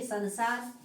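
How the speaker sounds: संसार as "sa-na-saar"; wrong pronunciation. Shown as a demonstration. Teacher showing students the slight error, संसार with a full n. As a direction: say संसार with a full N, not nasalised. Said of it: "जरा सा ही अंतर है".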